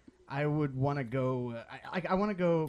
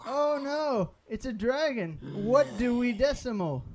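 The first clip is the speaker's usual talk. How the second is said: mock panic; 7 semitones higher than usual. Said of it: "I'm gonna do a better book joke".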